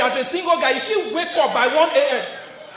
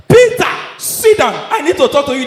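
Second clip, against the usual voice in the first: mock stern wife; 5 dB louder than usual. Wife waking her husband at night, in a mock stern voice. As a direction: play the wife calling him to account.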